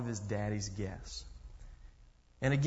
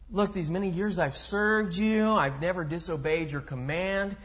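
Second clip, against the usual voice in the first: higher, louder resentful protest; indignant older brother; 6 semitones higher, 5 dB louder than usual. Retold or imitated. Older brother protesting loudly to his father, indignant. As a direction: complain like the wronged dutiful son. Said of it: "He starts off by saying".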